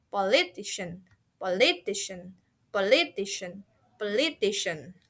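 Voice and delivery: "Politician" with the middle stressed; stress on middle syllable. Shown as a demonstration. Teacher drills learners, "Politician" stressed in the middle. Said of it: "emphasis in the middle of the word".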